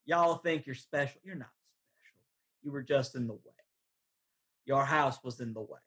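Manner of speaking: lightly voiced old farmer with a Southern drawl; a hint of a Southern farmer sneering at intruders. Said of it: "in the same southern drawl".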